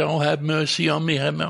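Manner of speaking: quick, mildly whiny mock plea; half-hearted whining for mercy. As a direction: imitate someone begging, a little whiny. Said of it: "we don't have to even whine".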